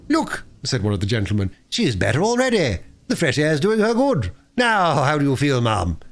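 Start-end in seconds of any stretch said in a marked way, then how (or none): 0.1-0.4 raised, lively gentleman; an eager kindly gentleman; kindly gentleman speaking up. A narrator's reading. 1.7-6.0 higher, solicitous gentleman; kindly gentleman checking on the lady. A narrator's reading. Gentleman speaking to Toad.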